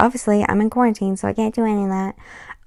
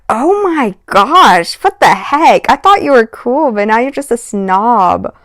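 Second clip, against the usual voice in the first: higher, drawn-out retold exasperation; exasperated disbelief; 3 semitones higher, slower than usual. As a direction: act shocked and disgusted, a touch higher. Her own retold reaction.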